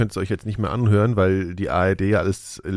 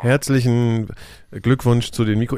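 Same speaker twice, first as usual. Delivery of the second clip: crooked wobbly take; 3 semitones higher than usual. Shown as a demonstration. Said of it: "ich mach's heute mal ganz gerade wieder".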